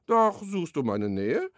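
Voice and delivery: a measured, rhythmic rhyme reading; poem recital. Acted. Author recites his beaver and butterfly poem, rhythmic recital. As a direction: let the rhymes land, like reading to children.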